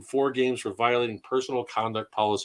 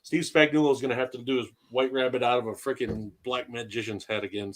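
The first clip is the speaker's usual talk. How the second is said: slightly slurred after surgery; words a little slurred and loose; slurring. Real, not acted. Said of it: "apologize for any, like, slurring like that".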